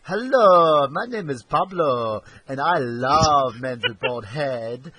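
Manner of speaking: slow, over-eager pickup line, hammed-up; mock Pablo. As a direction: drawl it like a cheesy foreign flirt. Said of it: "just went".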